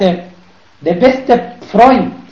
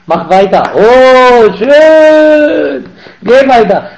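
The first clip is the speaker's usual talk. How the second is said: mock flatterer; 3 semitones higher, 4 dB louder, slower than usual. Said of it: "wenn jemand dir sagt".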